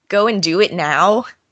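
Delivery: plain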